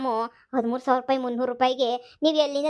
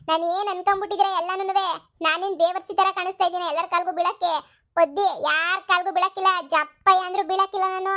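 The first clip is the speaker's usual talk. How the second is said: screaming in anger; 4 semitones higher than usual. Acted. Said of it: "ಈ ಹುಡ್ಗಿ ಯಾಕಲ್ಲ ಹಿಂಗ್ ಕಿರ್ಚ್ತೈತೆ".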